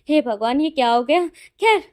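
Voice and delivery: loud, mock-despairing cry to heaven; hammed-up outrage, then shrug it off; dramatic dismay. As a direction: uncle wails over the secret wedding. Uncle's dramatic dismay at wedding.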